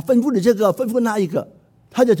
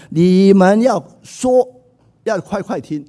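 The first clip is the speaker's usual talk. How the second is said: emphatic command; 2 semitones higher, 5 dB louder, slower than usual. Retold or imitated. Quoting James's command.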